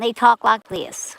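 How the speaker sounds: imitated American accent; mock American accent. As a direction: put on an American accent lightly. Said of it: "they've got an American accent".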